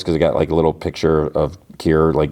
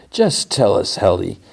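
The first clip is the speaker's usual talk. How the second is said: mildly insistent, higher-pitched nagging; pushy; 3 semitones higher than usual. Retold or imitated. Bitter coworker pushing Helly for answers, mildly insistent. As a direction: press for an answer, imitating a nag. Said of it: "He keeps pushing".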